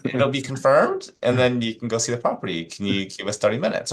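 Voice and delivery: high, sing-out polite explanation; mock-patient explaining. Agent explaining showing requests to an angry caller, mock-patient. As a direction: spell it out with exaggerated patience.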